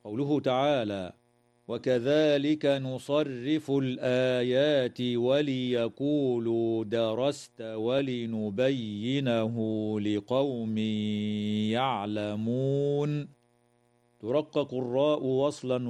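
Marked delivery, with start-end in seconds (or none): 1.7-13.3 slow chanted verse; Quran recitation. Shown as a demonstration.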